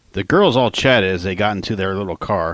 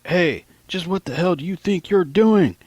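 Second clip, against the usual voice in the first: angry shout; 10 semitones higher, 3 dB louder than usual. Retold or imitated. Cop catches him stashing beers.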